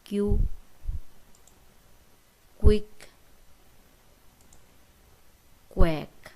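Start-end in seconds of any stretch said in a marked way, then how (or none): 2.6-6.3 کوئک then کویک said slowly and clearly, much louder; teacher spelling out کوئک for the class; clear, loud model of کوئک; example word. Shown as a demonstration. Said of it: "مثلاً".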